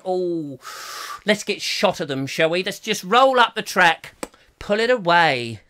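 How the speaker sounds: lightly put-on voice, drawn out at the end; a hint of an airy railway boss; Sir Richard Beeching. Railway boss ordering the track rolled up, lightly put on. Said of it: "apparently he spoke like that".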